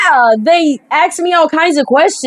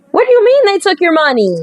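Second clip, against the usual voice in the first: quick, higher, incredulous reread; 3 semitones higher, faster than usual. Shown as a demonstration. Player rereads the option, fast and higher in disbelief. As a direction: fire it off in disbelief. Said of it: "So I could say".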